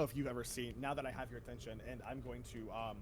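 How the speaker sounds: off-mic and faint; speaking away from the mic; turned away from mic. Real, not acted. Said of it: "You're whispering".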